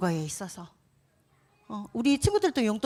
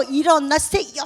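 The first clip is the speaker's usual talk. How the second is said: mild urgent shout; 5 semitones higher, 6 dB louder than usual. Pretend. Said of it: "하면서 막 예수님을 깨웠대요".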